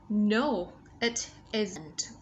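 "isn't" with a lightly released final t; "it isn't" closing on a small, light t; light ending sound. Shown as a demonstration. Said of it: "Bật nhẹ ending sound cuối nhá".

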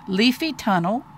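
put-on slow, deliberate reading to a child; expressive children's story narration; storybook narration. A narrator's reading. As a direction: read it like a picture book, lingering on key words.

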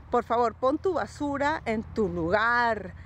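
slow, firm ultimatum. Retold or imitated. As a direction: lay down the law, one word at a time. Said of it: "así un ultimátum de".

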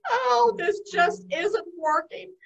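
slow, mildly exasperated complaint. Acted. Spider fed up with the noisy house, mildly exasperated. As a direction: drag out the complaint.

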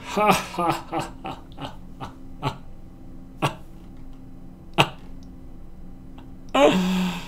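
breathy laugh fading to bare puffs; demonstrated laugh. Shown as a demonstration. Animating with the body, fading breathy laugh. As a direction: laugh until the air runs out, then a last gasp.

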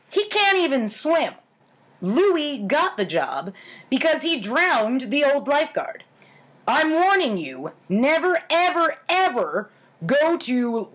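lively storyteller voice; playful warning tone for the listeners; story narration. A narrator's reading. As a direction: read it like a spooky campfire tale. Reads childhood story aloud.

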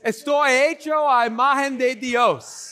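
whole congregation repeating together; many voices in unison. Real, not acted. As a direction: crowd reciting the line in unison. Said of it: "let's all say it together".

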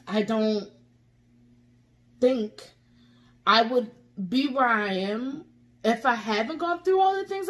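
real tearful crying, high and wavering. Real, not acted. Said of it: "get emotional and cry like this".

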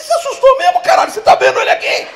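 high, loud mock outrage; incredulous protest. Husband loudly doubting his wife's fake fright, shouted. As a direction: protest at full blast.

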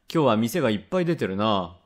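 a hint of a gruff dad agreeing; father's low-key echo, lightly acted; lightly voiced father. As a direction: lightly play a father, noncommittal. Father echoes the child's remark.

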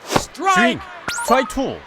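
excited strikeout call. Real, not acted.

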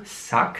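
"Suck" as a separate syllable closing on K. Shown as a demonstration. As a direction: end "Suck" on a clear K. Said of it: "wird wie ein K ausgesprochen".

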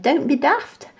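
high, amused put-down; cheeky monkey teasing; scoffing monkey. A narrator's reading. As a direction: laugh off his fear. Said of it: "laughed and said".

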